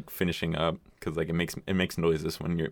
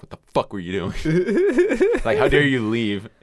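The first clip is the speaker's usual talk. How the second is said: mock angry mom; 7 semitones higher, 6 dB louder than usual. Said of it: "pretty much saying".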